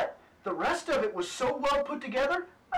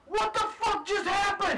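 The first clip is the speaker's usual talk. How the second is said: retold disbelief; 8 semitones higher than usual. Retelling disbelief.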